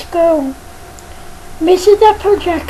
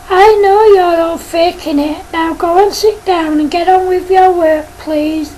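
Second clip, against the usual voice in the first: stern teacher. Acted. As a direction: scold the pupil firmly but lightly voiced. Teacher dismisses faking kids.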